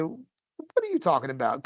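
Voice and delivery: mildly puzzled retold question. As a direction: ask it as if confused, lightly acted. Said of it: "puzzled, and".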